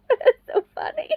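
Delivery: high, squeaky real laughter in the words; laughing. Real, not acted. Telling how the game noise scared her, laughing hard. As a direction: struggle to talk through giggles.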